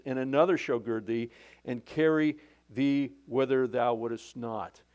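measured pulpit reading of scripture. Acted. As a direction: read the old verse like holy writ. Reads King James scripture aloud.

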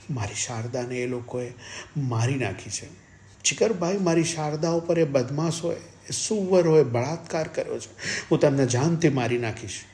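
high, loud, raging grief; frenzied shouting. A narrator's reading. Husband raves to Jigar about his wife's killers, frenzied shouting. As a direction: cry out, building to a threat. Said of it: "પાગલની માફક ... બૂમો પાડતો હતો".

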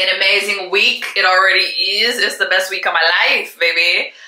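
bursting with happy news; excited. Real, not acted. Gushing about the best week.

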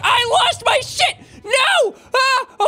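shrill yell of real dismay; dismayed wail. Real, not acted. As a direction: wail at the loss. Losing items in game.

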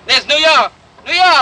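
excited. Acted. Excited arrival view.

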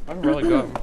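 high, loud delighted exclaim; excited squeal. Real, not acted. First bite of grilled cheese.

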